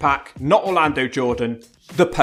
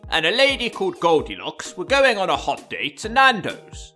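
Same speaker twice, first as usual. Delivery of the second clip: erotic novel narration; 3 semitones higher than usual. Pretend. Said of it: "narration of erotic novels".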